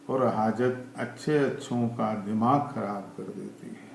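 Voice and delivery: measured recital in short, paused phrases; poem recitation. Acted. Poet reciting to listeners about a stopped clock, poem recitation. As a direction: recite free verse line by line, letting each phrase land.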